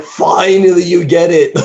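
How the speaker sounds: mock exasperated relief. Virgil approving of Dante's hatred, mock exasperated relief. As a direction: exclaim it high, as if long overdue.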